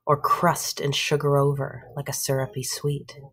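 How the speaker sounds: measured poem reading with pauses; poem recital. Acted. Teacher reading a short poem to the class, measured recital. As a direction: read the poem out line by line.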